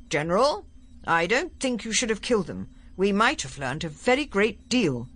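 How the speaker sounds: reproachful Doctor. Acted. The Doctor objecting to the general about the killing, reproachful. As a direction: gently take the commander to task.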